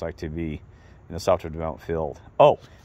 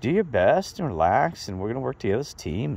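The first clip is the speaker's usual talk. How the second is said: calming reassurance; 6 semitones higher than usual. Retold or imitated. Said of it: "And he calmed me down".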